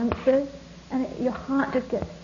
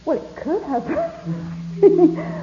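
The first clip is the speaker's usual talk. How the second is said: hopeful protest; 6 semitones higher, 5 dB louder, much slower than usual. Retold or imitated. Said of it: "there's this part of me that wants to say".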